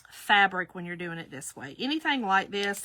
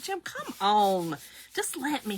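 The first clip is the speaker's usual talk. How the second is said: begging. Retold or imitated. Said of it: "I'm like".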